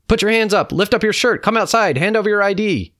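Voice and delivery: loud, high-pitched soldier's commands; high, forceful military yelling; barked orders. A narrator's reading. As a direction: shout each order at the captives. Soldiers ordering family outside.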